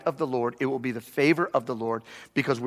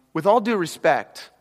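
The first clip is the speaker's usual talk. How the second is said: mock polite. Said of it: "if they start a sentence like this".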